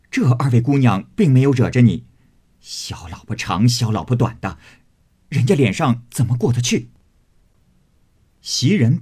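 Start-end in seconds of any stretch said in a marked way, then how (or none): 0.1-6.9 louder aggrieved protest; indignant complaint. Acted. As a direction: act wronged and indignant. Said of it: "脸上下不来". (委屈又不服气地抱怨)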